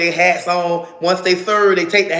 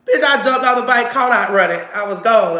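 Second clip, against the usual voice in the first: higher and louder, rushing through the escape; excited retelling; 5 semitones higher, 5 dB louder than usual. Retold or imitated. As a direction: tell the chase all fired up. Retelling fleeing the police.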